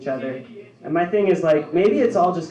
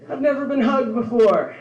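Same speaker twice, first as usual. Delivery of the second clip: high, louder whiny wail; mock sobbing woman; 8 semitones higher, 4 dB louder than usual. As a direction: play her as a crying woman. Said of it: "She's like".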